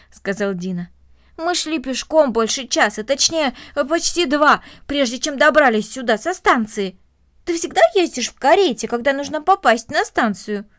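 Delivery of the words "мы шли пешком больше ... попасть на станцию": put-on louder, animated boyish chatter; lightly voiced lively boy. Boy telling of the long walk from the station, lightly voiced and lively. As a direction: talk it up with keen emphasis.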